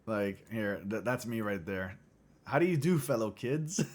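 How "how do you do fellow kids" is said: cheery fake-youthful greeting, pitched up; fellow kids meme. Reading a meme aloud as an awkward adult posing as a teen. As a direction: play the out-of-touch adult trying to fit in. Meme quote, Steve Buscemi impression.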